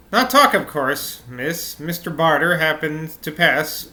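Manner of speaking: accidental Norwegian lilt for a maid; Norwegian accent. Acted. Maid explains to miss, lilting Norwegian accent. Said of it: "Norwegian accent right now".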